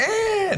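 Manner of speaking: short high electronic screech; jump scare noise. Shown as a demonstration. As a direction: shriek like an animatronic lunging. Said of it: "like, a".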